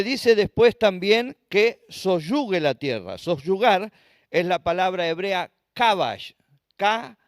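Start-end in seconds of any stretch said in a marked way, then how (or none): 5.7-6.3 kabash with stress on the last A, "ka-BASH". Shown as a demonstration. Preacher teaches the Hebrew word for subdue, kabash stressed on final A. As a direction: lean on the second syllable of kabash. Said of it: "acento en la A".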